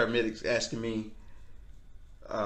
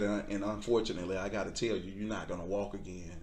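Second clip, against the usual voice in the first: low, soft retold doctor; grave, quiet news-breaking; 4 semitones lower, 7 dB quieter than usual. Doctor telling patient he won't walk again, quiet and grave. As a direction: drop softer and lower to the end.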